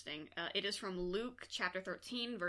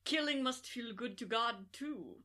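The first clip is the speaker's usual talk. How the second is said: put-on Mads Mikkelsen Danish accent; 2 semitones higher than usual. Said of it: "should I do my Mads Mikkelsen voice".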